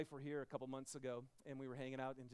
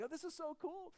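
mock delight; 12 semitones higher than usual. Voicing family at SeaWorld.

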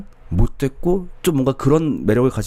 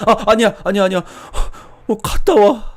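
high, loud desperate backing down; mock panic to keep her; panicked boyfriend; 10 semitones higher, 4 dB louder than usual. (높고 크게 다급하게 허락하는 남자친구)

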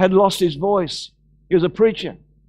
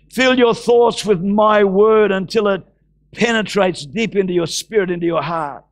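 preach. Acted. Proclaims scripture.

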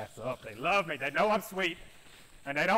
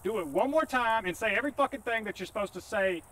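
exasperated yelling; 6 semitones higher than usual. Real, not acted. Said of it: "Why are you yelling at me?".

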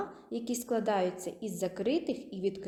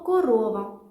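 loud demo; 8 dB louder than usual. Shown as a demonstration. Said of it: "скажемо слово".

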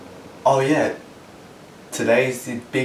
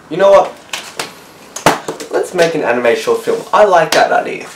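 loud, eager brainstorming; excited idea; 5 dB louder than usual. Pretend. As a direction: blurt out the bright idea. Estate worker gets excited idea.

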